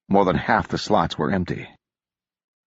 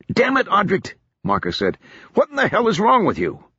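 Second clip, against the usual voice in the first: higher, angry outburst; a touch of lost temper, raised; 13 semitones higher than usual. Acted. Marcus snapping at drunk Odric, raised and angry. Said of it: "regain control of his temper".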